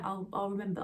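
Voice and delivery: ordinary talk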